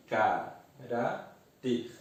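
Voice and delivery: CARÁTER slowly split into ca-rá-ter; syllable by syllable. Shown as a demonstration. Teacher finding the stressed syllable for students, CARÁTER syllabified. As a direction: say CARÁTER in three separate syllables. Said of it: "separar as sílabas".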